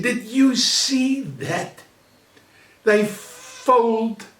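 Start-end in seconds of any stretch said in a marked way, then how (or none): 0.0-1.8 high, slow, mocking gasp of disbelief; mocking incredulous voice. World leaders on the phone about the scandal, mock disbelief. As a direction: stretch it out like a scandalized gossip. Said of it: "They said".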